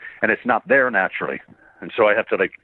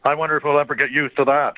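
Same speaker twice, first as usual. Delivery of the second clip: Cyclops voice; 4 semitones higher than usual. Retold or imitated. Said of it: "Would be Cyclops' my remark".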